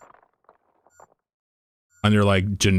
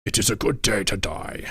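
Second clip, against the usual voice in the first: Corsair; 4 dB quieter than usual. Acted. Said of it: "when the Corsairs burn, he says".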